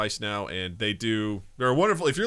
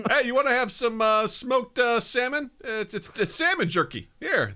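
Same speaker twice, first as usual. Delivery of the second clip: high, loud, eager colleague voice; put-on clueless snack-sharer; pushy food-sharing coworker; 13 semitones higher, 4 dB louder than usual. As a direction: offer it keenly, pitched way up. Voicing a coworker offering smelly food.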